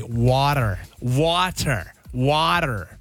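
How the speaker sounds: American-style pronunciation of "Water"; American accent. Shown as a demonstration. Traveller showing how to get water in America, American accent. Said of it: "you've gotta say".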